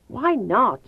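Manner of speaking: choking back tears; forcing out Why not through a tight throat; choked out. Acted. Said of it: "I choked out".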